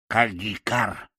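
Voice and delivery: slow mocking crow cry; mocking crow caw. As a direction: caw it out slowly, teasing. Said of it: "насмешливо прокричала ворона". (насмешливое карканье вороны)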